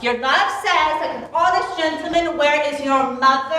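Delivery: echoing her words mockingly; mock the odd answer; mocking repeat. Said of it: "How oddly thou repliest".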